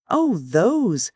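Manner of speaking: a light scoff, pitch high. Acted. Girl in love dismissing uncle's furniture, lightly scoffing. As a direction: brush it off with a dismissive oh. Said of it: "scoffed the girl in love".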